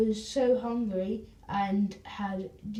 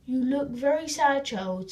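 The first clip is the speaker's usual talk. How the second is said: lightly voiced Raj; 4 semitones higher, 4 dB louder than usual. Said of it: "said Raj".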